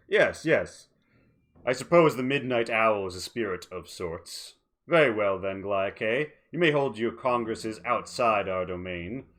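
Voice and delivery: smug, scheming villain voice; mustache twirling villain. Acted. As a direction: purr it with smug menace. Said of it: "Duraza twirls his mustache and says".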